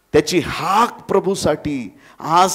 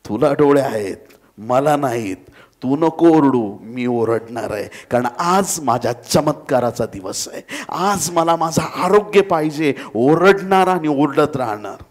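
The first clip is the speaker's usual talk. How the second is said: defiant; 4 dB louder than usual. Acted. Beggar defiantly answers the crowd.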